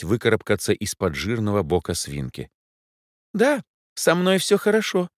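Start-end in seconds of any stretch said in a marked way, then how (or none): 3.3-5.1 put-on much higher child calling from above. A narrator's reading. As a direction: shout down happily. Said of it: "крикнула девочка откуда-то сверху". (крикнула сверху, радостно)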